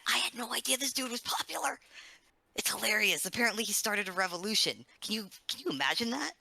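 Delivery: high, amused character voice. Acted. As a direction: speak up high in character, tickled. Player speaking in character.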